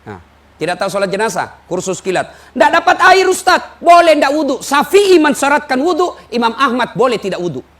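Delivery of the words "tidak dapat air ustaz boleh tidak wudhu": mock congregant question. Congregant asking about wudhu.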